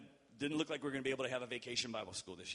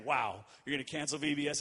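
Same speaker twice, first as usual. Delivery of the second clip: mock-incredulous Wow, a bit louder; 4 dB louder than usual. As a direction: imitate her disbelief, half teasing. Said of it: "That's how she said it".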